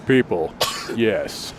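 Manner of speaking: low gravelly imitation; terse, low words with a pause between; Ron. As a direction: mimic a man of few words in a gravelly voice. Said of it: "he's got kind of a gravelly, you know, voice".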